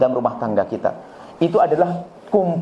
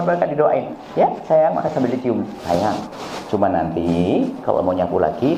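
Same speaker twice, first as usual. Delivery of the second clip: gentle praising mother; 3 semitones lower than usual. Retold or imitated. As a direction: thank the child tenderly before correcting. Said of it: "Itu dong, jangan dipatahin". (ibu memuji anak dengan lembut dan pelan)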